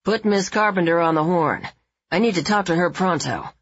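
noir tough guy on the phone. Acted. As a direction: play a hard-boiled 1940s detective. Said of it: "his tough guy tone pitched somewhere between Robert Mitchum and Dana Andrews".

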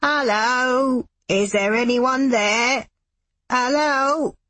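put-on high, slow, trembling elderly man calling; shaky old man voice. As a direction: call out like a frail old man. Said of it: "Fred Pink's elderly, shaky voice".

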